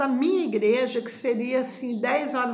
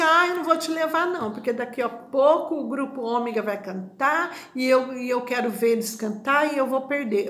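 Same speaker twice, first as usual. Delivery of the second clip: mock refusal. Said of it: "Aí ela falou assim".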